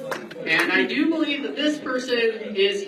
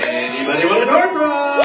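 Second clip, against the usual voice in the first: calling out; 5 dB louder than usual. Real, not acted. Calling out to the room.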